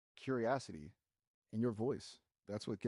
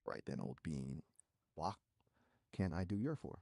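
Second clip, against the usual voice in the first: English accent; 4 semitones lower than usual. Shown as a demonstration. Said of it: "Can you speak in an English accent?".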